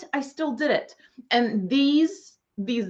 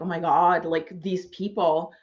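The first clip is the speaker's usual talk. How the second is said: lower, subdued inner voice watching others bond; mock dejected inner voice; 5 semitones lower than usual. Feeling bad about the networking crowd, in a low subdued voice. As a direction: mutter it like you feel left out. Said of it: "I was just like".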